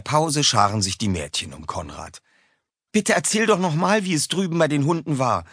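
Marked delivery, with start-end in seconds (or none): 2.9-5.4 put-on pleading girl. A narrator's reading. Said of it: "bittet Cordelia".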